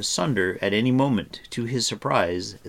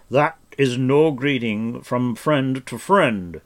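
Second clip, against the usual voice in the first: gentle; 5 semitones higher, 9 dB louder, slower than usual. A narrator's reading. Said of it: "gently raising Taran".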